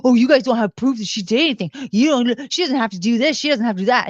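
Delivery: imitating an argumentative brother; mildly indignant protest, retelling his objections; combative brother, retold. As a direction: push back defensively, lightly acted. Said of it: "being really combative with them".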